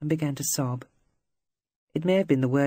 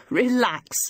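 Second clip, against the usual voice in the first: mocking echo, higher and louder; derisive mimicry; 8 semitones higher, 4 dB louder than usual. A narrator's reading. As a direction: throw her word back at her with scorn. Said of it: "He made a derisive snorting sound".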